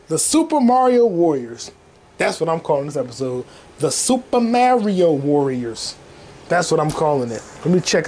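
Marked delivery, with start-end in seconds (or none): 0.1-1.7 title announcement. Real, not acted. Host naming this episode, title announcement. 3.8-5.9 slow, drawn-out episode title; grand title announcement. Real, not acted. Host naming this episode, slow grand announcement.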